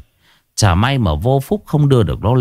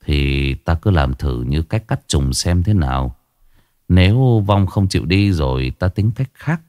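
lower, measured monk's voice; old monk; 5 semitones lower than usual. Acted. Monk advising the daughter-in-law, lower and calm. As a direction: speak as a calm old monk giving advice.

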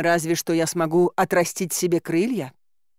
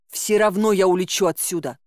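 defiant call, only slightly raised; мягкий выкрик. Acted. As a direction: call it back with understated defiance. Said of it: "крикнула я". (упрямо, чуть повысив голос)

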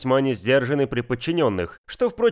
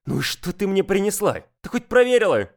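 higher, snapping reprimand; barked; 6 semitones higher than usual. Acted. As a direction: bark at the subordinate. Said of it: "рявкнула".

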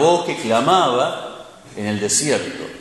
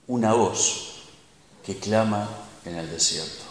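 quiet reflective; 4 semitones lower, 6 dB quieter than usual. Shown as a demonstration. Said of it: "closing repetition".

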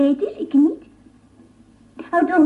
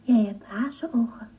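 whisper; 6 semitones lower, 6 dB quieter than usual. Acted. Child speaks softly to Kalebas.

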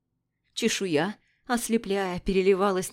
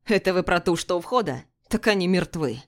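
cold contempt; 3 dB louder than usual. Acted. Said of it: "с холодным презрением".

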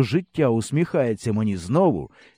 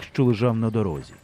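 usual speaking voice

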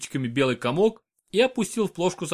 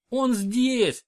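sobbed; 10 semitones higher than usual. A narrator's reading. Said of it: "прорыдала роженица".

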